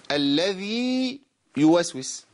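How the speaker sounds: slow, with the ya of "الذي" doubled into "يوسوس"; "الذي يوسوس" with the ya pressed hard; wrong doubled ya. Shown as a demonstration. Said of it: "بنسمع".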